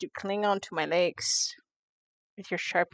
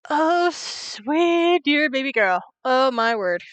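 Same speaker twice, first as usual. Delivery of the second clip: pitying coo; 4 semitones higher, slower than usual. Real, not acted. Reacting to character's naivety.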